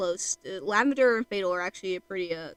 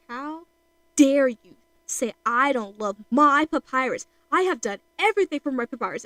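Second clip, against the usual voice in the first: flipping out; 3 semitones higher, 6 dB louder than usual. Retold or imitated. Brother told he doesn't love his Papyrus, flipping out. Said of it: "he flips out".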